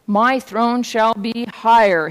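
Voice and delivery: slow, mildly thundering declaration; thundering royal voice. A narrator's reading. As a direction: proclaim it slowly as a king. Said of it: "his royal voice thundered".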